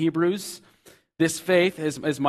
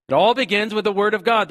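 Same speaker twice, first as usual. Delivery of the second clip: emphatic; 7 semitones higher, 8 dB louder, faster than usual. Real, not acted. Preacher stresses God's word first.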